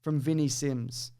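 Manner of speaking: soft unvoiced whisper. Real, not acted. Host introducing the next viewer review in a whisper. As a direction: lean in and whisper it.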